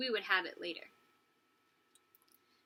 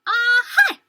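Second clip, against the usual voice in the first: imitated chicken sneeze; 12 semitones higher, 15 dB louder than usual.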